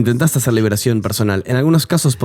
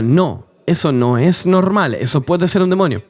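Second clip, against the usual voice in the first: un poco más agudo y lento, rechazando con firmeza; réplica firme; 5 semitones higher than usual. Retold or imitated. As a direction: marca cada palabra como quien corrige a un pastor. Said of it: "Y yo diría". (replicando al pastor famoso, tono firme y enfático)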